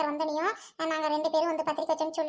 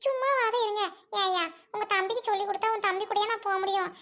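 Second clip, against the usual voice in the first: exasperated scolding; 2 semitones higher than usual. Acted. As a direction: scold him for talking nonsense. Bride scolds groom over cycling.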